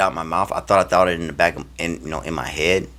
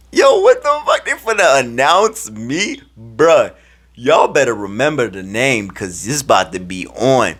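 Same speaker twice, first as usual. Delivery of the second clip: high, loud excited outburst; hyped disbelief; 6 semitones higher, 5 dB louder, slower than usual. Retold or imitated. Player about to be announced, amazed and hyped. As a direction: start very high, then brag loudly.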